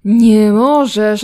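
loud, slow, exasperated; frustrated shout. Real, not acted. Gamer yelling at her stuck sim, loud and slow. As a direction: drag out the complaint loudly.

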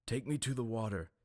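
lightly voiced priest giving an order; commanding. A narrator's reading. Priest ordering the mutes, a hint of command. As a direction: order it like a lord of the islands. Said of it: "he commanded".

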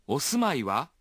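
お住まいは with the pitch lifted on は; accent on wa. Shown as a demonstration. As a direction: lean on は at the end. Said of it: "Acentuando la entonación en wa".

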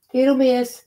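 high-pitched pet-talk call; cooing to cat. Real, not acted. Owner calls Little Miss on the cat tree, cooing. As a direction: coax the cat with a cutesy call.

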